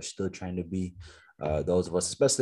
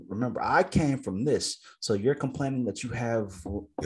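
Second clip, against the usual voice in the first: immigrant parent lecture; 5 semitones higher than usual. Retold or imitated. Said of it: "most immigrant parents kinda".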